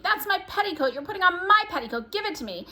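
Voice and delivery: whiny sibling demanding her sock; squabbling child. Acted. Twins quarreling over clothes.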